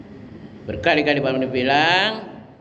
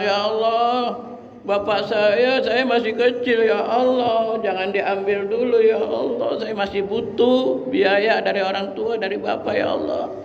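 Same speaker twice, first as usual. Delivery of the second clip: mock crying child; 4 semitones higher, slower than usual. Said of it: "Anak tangis teriak".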